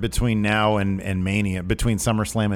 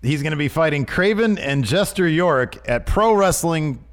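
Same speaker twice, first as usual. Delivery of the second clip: announcing big news; 6 semitones higher than usual. Real, not acted. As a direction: sell it like a ring announcer. Hyping a wrestler's upcoming matches.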